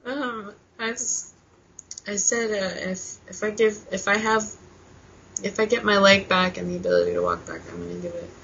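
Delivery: soft, halting, really moved; emotional. Real, not acted. Woman restarting her vow after apologizing, quietly emotional. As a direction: falter quietly through the emotion. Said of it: "I'm sorry, I get, like, really emotional".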